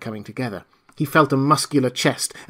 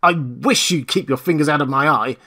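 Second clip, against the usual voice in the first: savage expostulation; 3 semitones higher, 4 dB louder than usual. Acted. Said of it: "in a tone of savage expostulation".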